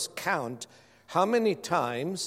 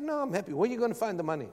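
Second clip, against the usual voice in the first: hint of a higher-pitched wife; lightly voiced wife; 5 semitones higher, much faster than usual. Preacher imitating his wife questioning the car promise, lightly raised voice. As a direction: lightly imitate her objecting reply. Voicing wife's doubtful reply.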